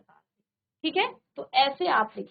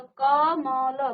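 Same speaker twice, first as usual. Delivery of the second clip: slow, drawn-out कमल, sound by sound; sounded out slowly; 3 dB louder, much slower than usual. Shown as a demonstration. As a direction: stretch each sound of कमल. Sounding out an example word slowly.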